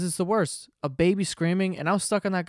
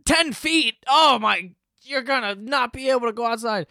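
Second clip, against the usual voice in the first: mock forecaster; 6 semitones higher, 3 dB louder than usual. Forecasters predicting a huge blizzard, building mock alarm. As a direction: hype the blizzard warning. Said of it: "they say".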